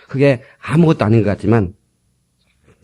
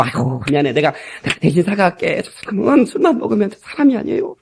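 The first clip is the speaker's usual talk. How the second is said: 달래는 사과; 4 semitones higher, 3 dB quieter than usual. Retold or imitated. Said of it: "지혜로운 말로".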